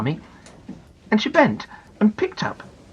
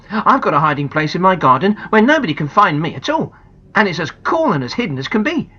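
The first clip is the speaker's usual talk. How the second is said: put-on louder, eager boy's idea; lightly voiced boy; 4 semitones higher, 4 dB louder than usual. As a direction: share a secret spot proudly. Colin proposes his tree.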